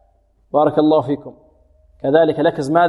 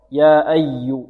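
slow "يا أي" pressing the doubled y; accented shadda; 2 semitones lower, much slower than usual. Shown as a demonstration. Teacher repeats the nabra for students, stressed. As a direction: lean firmly into "أي". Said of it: "نبرة".

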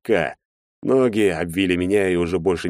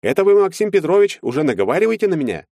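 higher, louder, fast indignant protest; offended lawyer; 11 semitones higher, 4 dB louder than usual. A narrator's reading. Lawyer accusing Maxim of slander, higher and fast. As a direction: fire back wounded.

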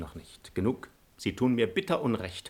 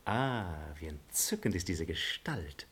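soft, low, admiring sigh of praise; hushed, smitten admiration; enchanted admiration; 5 semitones lower, 9 dB quieter than usual. Acted. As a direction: savour her beauty softly and low.

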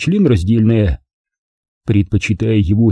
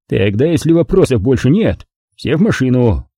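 ordinary delivery, nothing marked

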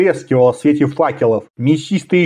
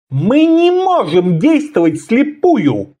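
high, slow, chilly refusal; cold; 8 semitones higher, slower than usual. A narrator's reading. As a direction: answer coldly, stretching it out. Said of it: "холодно ответил ассасин".

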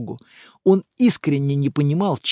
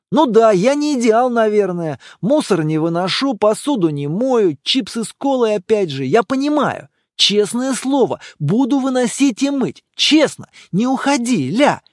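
higher, pleading promises, rising to desperation; begging boyfriend; 6 semitones higher, 4 dB louder than usual. Acted. Boyfriend begging girlfriend to stay, increasingly desperate. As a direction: beg her not to leave. Guy begs her to stay.

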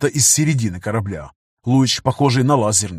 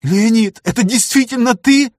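trembling voice; 10 semitones higher, 4 dB louder than usual. Acted. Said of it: "дрогнувшим голосом спрашивает Лана".

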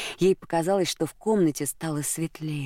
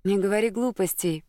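quick interrupting protest, pitched higher; higher, insistent interruption; cutting in; 6 semitones higher than usual. A narrator's reading. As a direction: brush his words aside. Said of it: "перебила его Клелия".

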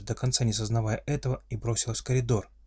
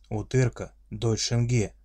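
friendly monster voice; slower than usual. Acted. Orc repeats claim.

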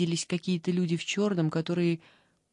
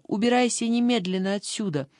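a slightly raised, bossy shout; mild mock shout; 3 semitones higher than usual. The girl in the bed orders Liza out with a mild shout. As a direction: order her out, half-shouting. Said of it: "девочка на кровати закричала".

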